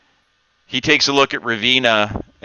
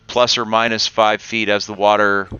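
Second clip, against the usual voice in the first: game master scene setting; 3 dB quieter than usual. A narrator's reading. GM sets the cavern scene.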